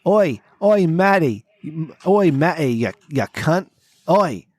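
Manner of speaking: lightly mimicked friend with punchy "oi"; mock a drunk mate in short bursts; Maddie. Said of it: "that's how Maddie talks".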